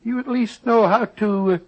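a lightly done Scottish brogue, rolling and folksy; doctor hides behind a fake Scottish accent; put-on Scottish accent. Disguised doctor bargains with the schoolmaster in put-on Scottish accent. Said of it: "your Scottish accent is beginning to disappear".

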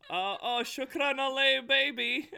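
loud, high, hammed-up botched Arabic; botched repetition. Child garbling the whispered congratulations, hammed-up blurt. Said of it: "will whisper something. I'm like".

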